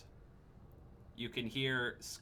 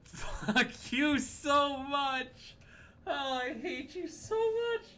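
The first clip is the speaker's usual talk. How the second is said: furious shout; 6 dB louder, much slower than usual. Real, not acted. Player yells at GM.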